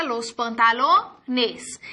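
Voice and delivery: los pantalones said slowly and clearly; slow model word. Shown as a demonstration. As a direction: stretch out pantalones for the class. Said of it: "de acuerdo con la regla". ("pantalones" dicho despacio y claro)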